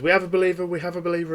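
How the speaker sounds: exultant preacher. Acted. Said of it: "the pastor goes".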